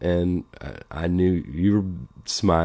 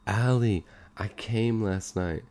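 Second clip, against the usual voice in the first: sexy voice; 4 semitones higher than usual. Retold or imitated. Mock fan email, sexy voice.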